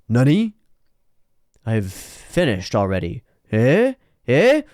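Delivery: shocked yelp. Acted. Sudden shock at missing bone.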